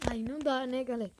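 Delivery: loud frustrated shout. Real, not acted. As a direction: yell it out at the game. Gamer shouting at opponent.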